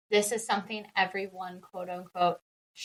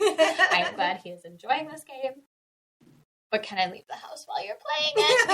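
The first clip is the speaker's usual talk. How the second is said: laughing forbearance; 5 semitones higher than usual. Retold or imitated. Voicing parent enduring child's game.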